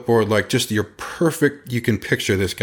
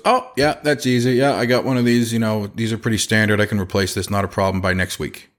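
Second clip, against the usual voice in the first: cavalier. Retold or imitated. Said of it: "just s-, very cavalier".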